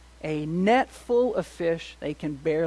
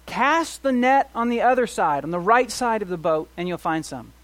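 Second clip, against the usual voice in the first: commanding call; 4 semitones higher, 6 dB louder than usual. Retold or imitated. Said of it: "And so he says".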